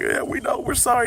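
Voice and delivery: high, whiny imitation of sorry kids; mock pleading apology. Teens told they're in big trouble, high mock-pleading apology.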